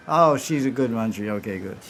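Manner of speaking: a soft pleased laugh through the words; chuckling approval. Retold or imitated. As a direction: approve her with a little laugh. Radharani pleased by Manjari's loyalty.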